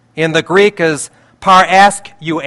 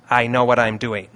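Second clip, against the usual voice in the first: lower, softer repeat of a promise; God reassuring; 6 semitones lower, 7 dB quieter than usual. Retold or imitated. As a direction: settle into quiet, understated assurance. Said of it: "and he says".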